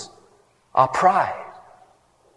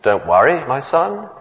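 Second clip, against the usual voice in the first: calm voice of God. Retold or imitated. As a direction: reassure him gently from above. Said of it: "a booming voice from heaven".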